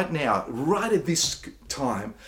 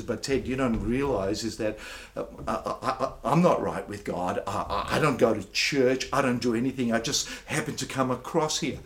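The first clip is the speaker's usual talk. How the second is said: doubtful listener; 4 semitones lower than usual. Retold or imitated. Pastor voices a doubting newcomer objecting to him, hesitant. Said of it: "your question is".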